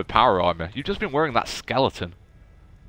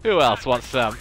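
bold taunt. Real, not acted.

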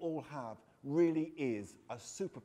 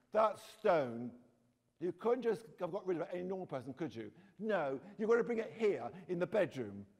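lively read-aloud of a children's novel, voicing the kids; story reading. A narrator's reading. Author reading her book to schoolchildren, animated storytelling. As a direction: read the story out to young listeners.

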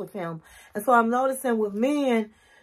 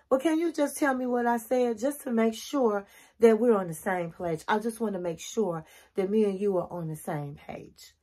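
nice, respectful tone; 4 dB quieter than usual. Shown as a demonstration. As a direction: ask kindly, letting the voice settle down. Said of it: "You wanna have a nice, respectful tone".

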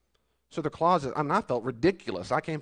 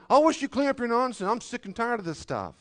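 higher, louder mock yelling parent; 10 semitones higher, 5 dB louder than usual. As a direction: yell at the kids about the mess. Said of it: "and you're yelling".

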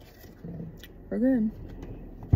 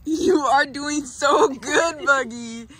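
crying; much slower than usual. Real, not acted. Praising puppy while tearful.

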